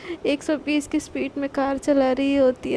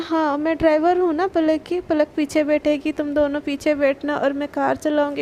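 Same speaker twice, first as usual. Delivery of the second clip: angry. Retold or imitated. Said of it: "एकदम गुस्से में बोलती है".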